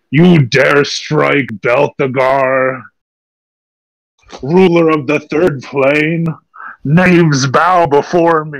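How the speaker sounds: slow, drawn-out booming villain; deep gravelly voice. Acted. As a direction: proclaim it slowly like a dark deity. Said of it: "I say in, like, a deep, gravelly voice".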